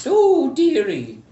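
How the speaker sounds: put-on high, slow old woman. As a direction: croon like a little old lady. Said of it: "you hear an old woman's voice".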